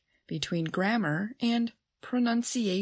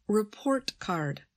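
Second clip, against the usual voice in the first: "Report card" with Report strong, card falling away; stress on first word. Shown as a demonstration. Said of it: "stress the first word in a compound".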